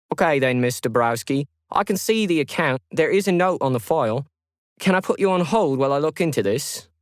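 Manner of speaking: a lightly voiced courteous call centre agent; customer service agent. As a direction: agent politely asks Lauren to hold. Agent character voice.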